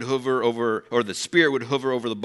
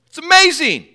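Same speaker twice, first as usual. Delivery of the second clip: much higher and louder, gasping wonder; a churchgoer stunned by a miracle; astonished wow; 10 dB louder, slower than usual. Retold or imitated. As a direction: cry out in stunned amazement. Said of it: "you'd be like".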